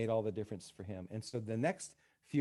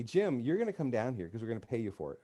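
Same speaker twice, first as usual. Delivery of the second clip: retold boss's order, a bit louder; mildly ordering; 5 dB louder than usual. Supervisor telling his employee he must come, mildly ordering. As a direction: lay down the order, lightly acted. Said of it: "he ended up ordering me".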